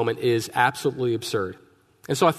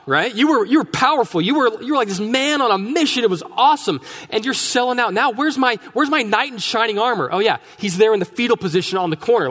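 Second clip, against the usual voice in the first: worked-up, higher-pitched telling-off; acted exasperation, building to a high, insistent rant; indignant rebuke; 5 semitones higher, 4 dB louder than usual. Sarah scolding Abe for selling out, indignant rebuke.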